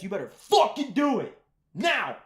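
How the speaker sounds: high, bossy put-on order; mock demanding girlfriend. Girlfriend ordering him to go ahead, in a high mock-bossy voice. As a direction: snap it at him like a command. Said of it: "And she says".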